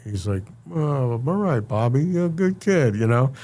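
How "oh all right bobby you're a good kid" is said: lightly voiced approving old mobster, a bit higher; hint of a pleased older Italian; older Italian guy. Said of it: "older Italian dude, he's like".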